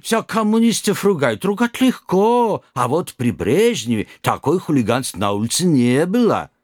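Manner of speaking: put-on startled old driver, broken Russian; old Kazakh driver. Driver grumbles.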